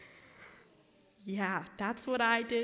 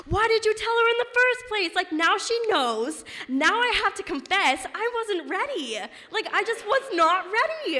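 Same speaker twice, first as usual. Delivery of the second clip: exasperated outburst; 9 semitones higher, 6 dB louder than usual. Retold or imitated. Daughter berates mom for telling the aunt, exasperated. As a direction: complain in panicked, hammed-up protest.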